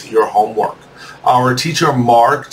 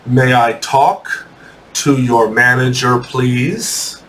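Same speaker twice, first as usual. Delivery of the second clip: slow dictation; slower than usual. Shown as a demonstration. Teacher repeating a sentence for students to write, slow dictation. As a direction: dictate it in short chunks for writing.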